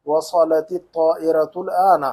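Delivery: slow وصلت الطائرة الآن with heavy ص, ط and long آ; Arabic-style reading. Shown as a demonstration. Teacher shows reading Arabic unlike Urdu, careful وصلت الطائرة الآن with emphatic ص and ط. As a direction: read وصلت الطائرة الآن deliberately, with full Arabic consonants. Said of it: "عربی پڑھیں گے تو عربی کی طرح".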